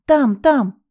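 high, loud alarmed pointing; frightened. A narrator's reading. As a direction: cry out in fright. Pointing at the mouse.

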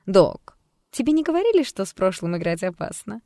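high, loud, mocking menace; devilish glee. Alter ego looming over the doctor, devilishly gleeful. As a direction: tease her with a hidden threat. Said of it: "дьявольское веселье и затаённая угроза".

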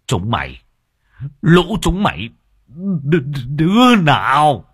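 put-on furious old man shouting, high and loud; angry yell. A narrator's reading. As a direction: scream at the kids like an enraged old man. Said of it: "ông Nghĩa nổi giận". (ông già quát tháo giận dữ)

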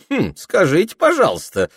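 high, mock-impressed jab; girl teasing a boastful boy with mock awe; hidden smirk. A narrator's reading. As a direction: needle him with a smile. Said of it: "со скрытой усмешкой кольнула".

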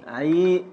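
teacher's stretched syllable demonstration; isolated metrical syllable. Shown as a demonstration. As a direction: sound out "عي" on its own. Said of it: "حركة، سكون".

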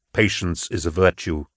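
low, even, measured voice; completing the saying. Acted. Narrator completes recalled saying.

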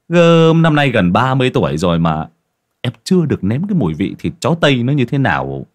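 a hungry villager eager to taste dog meat; greedy excitement. Acted. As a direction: gush with greed. Craving the dog's meat.

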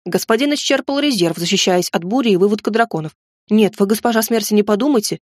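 chattering goblin. Acted. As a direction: babble on like a nervous servant. Goblin servant rambling.

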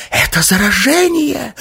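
a hoarse, high-pitched gasp of a cry; choked alarm cry from the girl faking infection. Acted. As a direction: rasp it out high and loud like a stricken woman. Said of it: "захрипела она".

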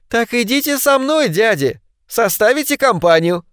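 a touch of teasing laughter; laughing reply. A narrator's reading. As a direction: tease the uncles merrily. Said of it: "смеясь, отозвалась она". (смеясь)

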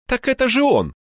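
high-pitched startled outburst; shocked recognition. A narrator's reading. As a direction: burst out on recognising the culprit. Scientist suddenly recognises the narrator.

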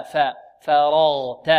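slow فرغت with a plain light ف, no tilt toward e; correct faa. Shown as a demonstration. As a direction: draw out فرغت, keeping ف light but open. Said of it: "لا، فاء". (نطق فرغت متأنيًا بفاء مرققة دون إمالة)

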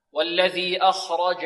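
أخرج recited slowly with jim from mid-tongue; correct jim articulation. Shown as a demonstration. Teacher models jim for pupils, clean mid-tongue articulation. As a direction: draw out والذي أخرج, pure jim with no dal in it. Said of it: "هكذا".

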